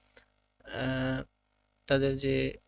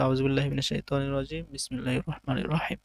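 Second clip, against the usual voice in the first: recitation. Acted. Opening recitation.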